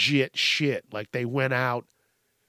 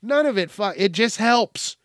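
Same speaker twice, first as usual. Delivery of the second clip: higher-pitched, mocking imitation of a silly argument; mock dumb objector; 6 semitones higher, 3 dB louder than usual. Mask arguer battles him with bullshit, mockingly imitated as dumb. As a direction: parrot them to make them sound dumb. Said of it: "That, you sound dumb".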